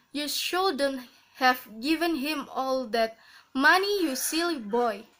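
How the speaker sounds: put-on "money" lifted, then falling through "you silly boy"; takeoff intonation. Shown as a demonstration. Teacher showing takeoff intonation, peak on "money". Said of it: "takeoff intonation".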